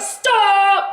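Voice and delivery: loud, forceful stop; commanding stop. Retold or imitated. Grim Reaper orders the car to stop, loud and forceful. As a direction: halt it with one word.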